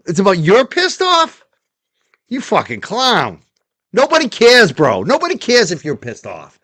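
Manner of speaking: high, heated scorn; a real outburst of mocking anger; angry rant. Real, not acted. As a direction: tear into him, voice climbing. Ranting at a guest's clip.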